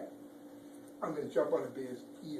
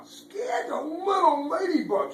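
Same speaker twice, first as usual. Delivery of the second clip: excited exclaim; 13 semitones higher, 11 dB louder, slower than usual. Acted. Scary moment in story.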